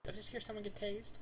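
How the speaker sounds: mock alarmed call. Calling out as if from outside.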